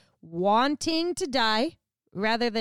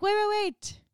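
urgent plea; 11 semitones higher than usual. Retold or imitated. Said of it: "He's like".

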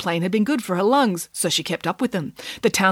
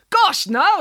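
quick high-pitched rat blurt, a little louder; hurried exclamation; 10 semitones higher, 4 dB louder than usual. A narrator's reading. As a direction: rat hastily cutting her off. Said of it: "exclaimed the rat hurriedly".

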